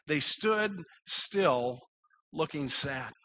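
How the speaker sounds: slow, heavy-hearted reading; sad. Acted. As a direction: read it slowly, weighed down with sadness. Quotes the sad description slowly.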